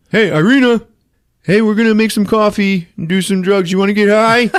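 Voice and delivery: acted high-pitched holler; calling out. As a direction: call to someone in another room. Calling out to Irina upstairs.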